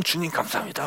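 very soft aside with a touch of laughter; secret inner thanks. Retold or imitated. Missionary secretly thanking God while acting cross, hushed and amused. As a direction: drop to a hushed, amused private prayer. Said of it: "속으로는".

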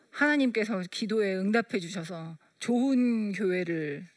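ordinary talk, nothing marked

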